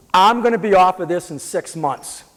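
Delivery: firm, emphatic vow of recovery; insistent. Retold or imitated. Patient telling doctors he'll recover, insistent.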